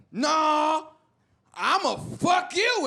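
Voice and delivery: mock tough copycat threat; copied tough threat. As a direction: imitate the other guy's threat badly. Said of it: "I'ma just say what he said".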